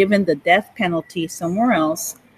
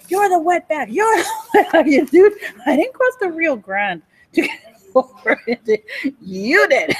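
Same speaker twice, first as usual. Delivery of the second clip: laughing retort; 5 semitones higher than usual. Retold or imitated.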